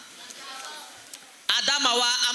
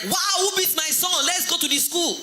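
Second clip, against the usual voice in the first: indignant mother; 8 semitones higher than usual. Acted. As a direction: play a mother up in arms for her child. Outraged mother hears of flogging.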